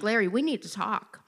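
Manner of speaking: understated somber retelling; sober, serious opener in an everyday voice. Retold or imitated. Wife tells husband they need to talk, mildly somber. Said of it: "my voice was very somber".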